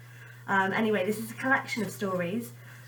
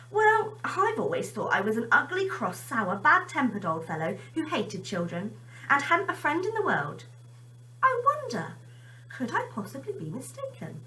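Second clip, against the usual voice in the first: a hint of a wondering old man; musing old man, rising on I wonder; lightly voiced Mister Grimm; 5 semitones higher than usual. Mister Grimm wonders aloud at his mirror.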